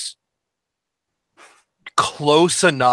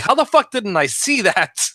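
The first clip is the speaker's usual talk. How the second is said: surprised; 9 semitones higher than usual. Retold or imitated. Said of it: "And I'm like".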